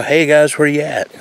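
calling out to the guys, half-hearted; retold yell. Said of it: "So I stood up and I yelled".

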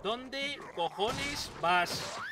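slow, drawn-out scolding question; fed-up plea at a wandering companion; exasperated. Real, not acted. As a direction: drag every word out in disbelief. Ally walking into danger.

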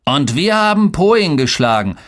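put-on high-pitched excited older brother; high kid's voice, drawing out the score; eager boy boast. A narrator's reading. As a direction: jump in to boast, high and keen. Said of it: "beeilte sich Boran".

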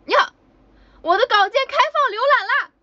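real excited exclamation. Real, not acted. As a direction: burst out with it, thrilled. Sudden announcement mid-stream.

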